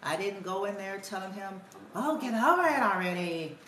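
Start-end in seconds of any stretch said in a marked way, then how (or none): 1.9-3.6 mock impatient parent brushing a child off; dismissive parent. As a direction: imitate your old dismissive self, lightly exasperated. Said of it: "like I used to".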